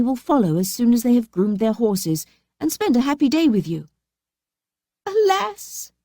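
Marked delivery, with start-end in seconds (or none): 5.1-5.9 high, sobbing cry; sobbing alas. A narrator's reading. Fatima sobbing to her sister. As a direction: sob it out in despair. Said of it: "sobbed Fatima".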